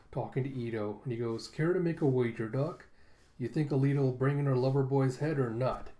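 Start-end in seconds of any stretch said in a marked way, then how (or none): 1.5-5.9 taunting villain. Acted. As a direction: tease him with a smirk in the voice. Villain Zapan taunts Ito.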